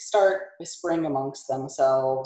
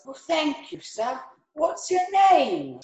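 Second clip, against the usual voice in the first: high squeaky little goblin; tiny goblin voice; 11 semitones higher than usual. Acted. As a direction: pipe up like the smallest goblin. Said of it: "The tiniest goblin says".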